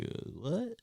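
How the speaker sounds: high, soft confused question; baffled, half under the breath. Retold or imitated. Parents hearing the noise, softly confused. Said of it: "we were just kinda like".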